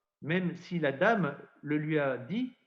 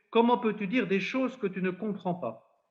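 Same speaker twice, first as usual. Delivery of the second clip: mildly shocked reproach; 4 semitones higher than usual. Retold or imitated. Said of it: "il est peut-être un peu choqué".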